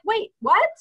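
high-pitched, incredulous outburst; imitated astonishment. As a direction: play a flabbergasted crewmate protesting. Acting the electrician's astonishment.

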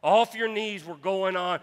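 full shout of off your knees; preached shout. Real, not acted. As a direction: pastor repeats the cry to the congregation: loud shout. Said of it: "repeated with force".

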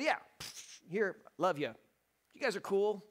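casual dismissive tone with a scoffing pfft, then a tossed-off love you; offhand shrug. Retold or imitated. Pastor voicing an offhand God brushing off humanity, mock dismissive. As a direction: toss it off like you barely care. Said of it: "could have just said".

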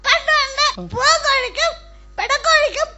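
declaimed storytelling in separate phrases; children's story recital. Pretend. Child pupil tells a story to young viewers, reciting. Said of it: "ഒരു കഥ അവതരിപ്പിക്കാമോ".

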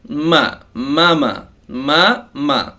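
মা with a short vowel, not drawn out; no stretching. Shown as a demonstration. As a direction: say each মা without lengthening it. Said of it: "টান দেওয়া যাবে না". (টান ছাড়া ছোট করে মা)

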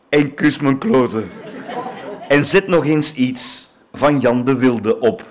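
theatrical declaiming of a comic poem, measured pauses; poem recitation. Acted. Reciting a mock tribute poem to the honoured singer, declaiming. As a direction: recite it like a stage poem, savouring each line.

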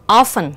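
"often" said with no t sound; silent t. Shown as a demonstration. Teacher reading test words for students, silent t. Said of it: "không có phát âm".

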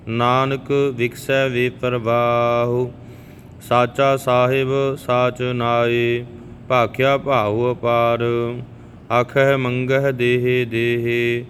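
slow, even devotional recitation of gurbani; scripture recitation. Shown as a demonstration. Teacher reciting Japji Sahib for the learners, calm and even. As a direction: recite each line steadily, like a prayer.

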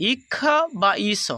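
"ইক্ষা বা ঈশ" said slowly, each word apart; slow repeat. Shown as a demonstration. Teacher slowly repeating spelling endings for students. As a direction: lay the endings out slowly so students catch them. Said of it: "আর আমি বললাম ঈশা বা ইক্ষা".

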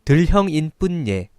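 halting reading. Real, not acted. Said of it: "나 지금 나오는 대로 읽고 있는 거예요".

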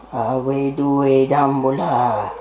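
slow, solemn chanting plea; mock incantation. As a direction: intone it like a spell.

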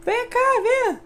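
high sing-song taunt; high taunting call. Pretend. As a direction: call them in a high teasing voice. Taunting enemies to come.

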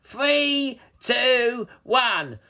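high, drawn-out villain count; gloating troll countdown. A narrator's reading. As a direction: count down with wicked relish.

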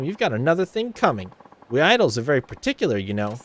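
high, self-important boast; haughty Ulala bragging about herself; vain rival idol. Acted. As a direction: show off who you are.

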